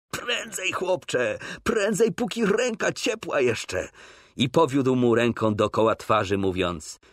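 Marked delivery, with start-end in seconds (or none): 0.1-3.9 high, eager urging without much volume; urgent cry. A narrator's reading. Father urging his son to hurry, high urgent cry. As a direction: call the boy over urgently. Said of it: "a ów krzyknął".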